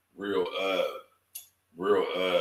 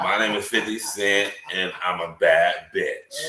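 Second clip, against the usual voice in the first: mock sassy voice; 4 semitones lower than usual. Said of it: "this is how he gonna be sounding in my head".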